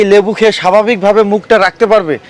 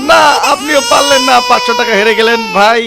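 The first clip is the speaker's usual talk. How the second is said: laughing through the words; amused, laughing at the failure; 4 semitones higher than usual. Real, not acted. Host reacts to failed contestant.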